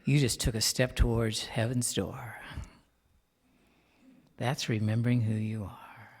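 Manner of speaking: hushed reverent whisper. Real, not acted. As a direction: lean in and whisper it to them. Hushed after group affirmation.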